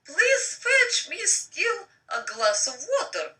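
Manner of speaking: a hint of a stern boss, slow and lifted. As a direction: order the intern about, slow and firm. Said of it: "Her voice is stern".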